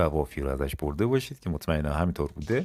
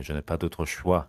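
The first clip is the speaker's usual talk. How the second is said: each syllable drawn out slowly for learners; slow model phrase; much slower than usual. Shown as a demonstration. French teacher to students, slow model read. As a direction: say it slowly and clearly.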